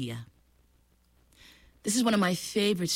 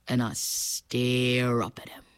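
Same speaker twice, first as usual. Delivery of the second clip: whispered; 6 semitones lower, slower than usual. Acted. Crocodile admits his failed plan.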